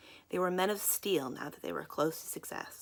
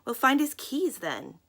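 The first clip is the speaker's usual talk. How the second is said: menacing; 8 semitones higher, 7 dB louder, slower than usual. Acted. Crows threaten.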